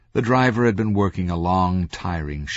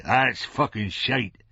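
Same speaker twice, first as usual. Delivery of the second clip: mild irritated snap, higher and slow; snapped; 6 semitones higher, slower than usual. A narrator's reading. Franco interrupts Franklin, snapping mildly. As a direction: cut in with a touch of anger. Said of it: "Franco snapped".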